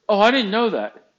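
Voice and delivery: high, loud retort of surprise; mock surprise. Boss reacting to Mike's warning, mock surprised. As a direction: play the boss caught unawares. Acted quote of boss's surprise.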